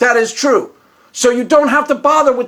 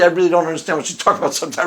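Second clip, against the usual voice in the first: normal talking voice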